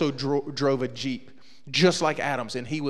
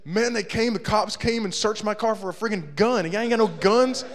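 indignant rant; 5 semitones higher, 4 dB louder than usual. Retold or imitated. Angry Daniel retelling cops.

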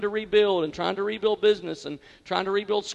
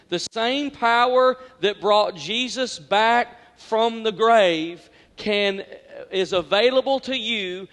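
preaching; 4 dB louder, slower than usual. Real, not acted. Emphatic sermon climax, slowed.

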